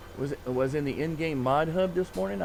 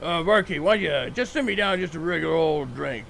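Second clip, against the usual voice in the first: louder tipsy order; tipsy tough guy; 3 semitones higher, 3 dB louder than usual. Acted. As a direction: act tough while tipsy.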